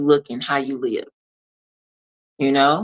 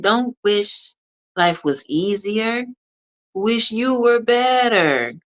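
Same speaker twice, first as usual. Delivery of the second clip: higher, slowing, ending in a shout; Jim Rohn impersonation; 6 semitones higher, slower than usual. Retold or imitated. Coach imitating her mentor for listeners, high and slow, then a shout. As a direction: mentor voice that builds to a big shouted finish. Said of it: "That's my Jim Rohn impersonation".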